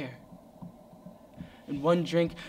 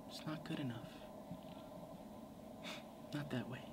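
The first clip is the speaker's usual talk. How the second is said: hushed, much softer mock voice; whispered taunt; 2 semitones lower, 19 dB quieter than usual. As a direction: breathe it like a voice over his shoulder.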